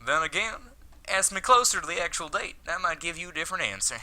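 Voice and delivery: put-on a light cowboy accent for him; lazy cowboy accent, not overdone. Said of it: "Let's switch to cowboy".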